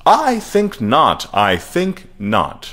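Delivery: slow, swooping up and down with dramatic pauses; half Captain Kirk, half Kermit the Frog, heavy italics; high, carrying preacher voice. A narrator's reading. Mister Shubble answering questions, high, slow, dramatic rhetoric. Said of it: "His high, carrying voice would go up and down".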